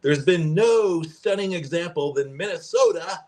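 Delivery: a light, half-hearted Trump voice; reading his speech lines as Trump, barely; Trump impression. Host reading Trump's speech quote, in a faint Trump impression. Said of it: "I can't do a Trump impression".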